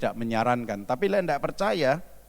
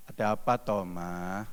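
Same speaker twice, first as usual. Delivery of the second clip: lowered tone; 5 semitones lower, 5 dB quieter than usual. Shown as a demonstration. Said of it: "nadanya diturunin".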